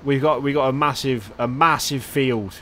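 badly faked accent, slipping into pirate; half-hearted pirate-like accent, slowing down; failed accent turning pirate. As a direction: attempt a country accent that drifts pirate. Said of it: "I cannot do the accent. I don't know why. It just turns pirate".

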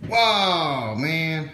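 sudden high, loud whoa; startled gasp of a word; surprised. Real, not acted. Magnet suddenly snaps on.

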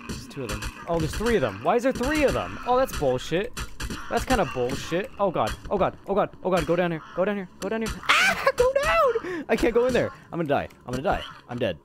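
high, loud, panicked yelling as they swarm; shrieking in terror at the monsters; panicked screaming. Real, not acted.

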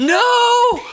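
high, loud "no" after a gasp; shouted protest. Real, not acted. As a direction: cry out in sudden protest. Mock protest over found iron.

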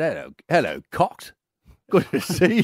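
a light impression of King Charles. Radio host imitating King Charles greeting his hosts, lightly. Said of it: "And he said".

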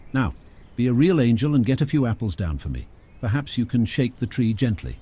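lightly voiced grand old lady, coaxing; a hint of a gushing lady; Clara. Clara asks for apples.

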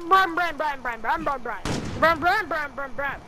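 nonsense name chant. Pretend.

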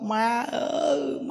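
slow, high drawn-out wail; mock wailing. Children wailing for their dead mother at the temple door, hammed-up and slow. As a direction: wail like a crocodile mourner. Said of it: "nó khóc".

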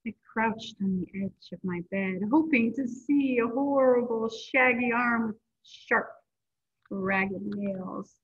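lively storybook read-aloud voice; reading to children. A narrator's reading. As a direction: read it like story time for kids. Reading a picture book aloud.

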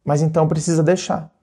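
ordinary talk, nothing marked

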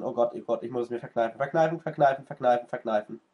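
fighting back a sneeze, tense; holding in a sneeze. Real, not acted. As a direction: strain to stop a sneeze. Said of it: "ich muss niesen".

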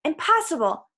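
mildly alarmed high exclamation; servant's understated cry. A narrator's reading. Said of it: "the servant cried".

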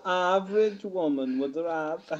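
put-on tentative, half-sure Welsh accent. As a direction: try a lilting Welsh accent. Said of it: "I don't think I can do well".

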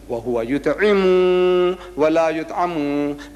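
measured Arabic chant with held endings; Quran recitation. Real, not acted. Preacher quotes what Allah says, reciting. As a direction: recite it as sacred verse.

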